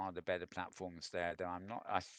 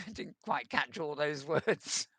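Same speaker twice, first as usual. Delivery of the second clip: laughing aside; 6 semitones higher, 4 dB louder than usual. Real, not acted. Joking after a wordy release.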